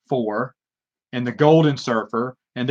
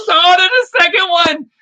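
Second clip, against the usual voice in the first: much higher and louder, delighted; excited discovery; 7 dB louder than usual. Real, not acted. Finding a second old comic for the audience, delighted high squeal.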